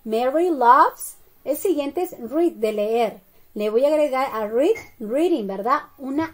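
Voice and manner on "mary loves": drawn-out words, louder for the class; teacher dictating slowly; slow model phrase. Shown as a demonstration. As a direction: stretch each word for learners. Teacher builds the answer.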